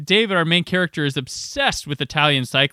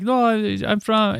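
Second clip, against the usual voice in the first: hint of Rastafarian accent; 7 semitones higher than usual. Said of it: "spoke with a Rastafarian accent".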